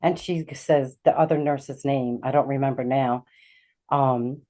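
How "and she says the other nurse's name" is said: ordinary talk, nothing marked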